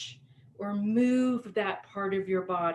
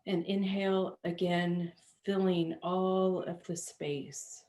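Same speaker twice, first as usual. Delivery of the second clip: unhurried yoga nidra voice, settling down; guided meditation; 2 semitones lower, 3 dB quieter than usual. Acted. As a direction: guide them gently through body and breath, with long pauses.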